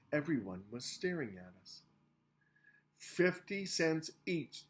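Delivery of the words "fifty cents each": repeating. A narrator's reading. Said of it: "the driver repeated".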